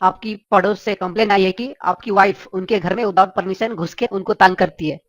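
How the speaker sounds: pompous chief minister. Acted. Chief minister phones Billa about the neighbour, official and low. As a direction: speak like a minister lecturing a citizen.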